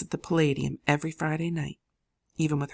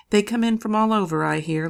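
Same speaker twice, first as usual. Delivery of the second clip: higher and louder, eager; Lily excitedly sharing what she heard; eager gossip; 6 semitones higher, 6 dB louder than usual. A narrator's reading. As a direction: tell it like fresh news.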